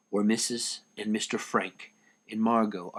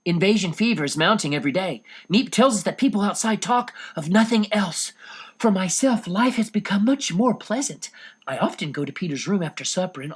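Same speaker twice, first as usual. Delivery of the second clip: a lightly voiced teenage girl reading her diary; Anne's diary voice; 3 semitones higher than usual. Anne reading her diary entry aloud, lightly voiced girl.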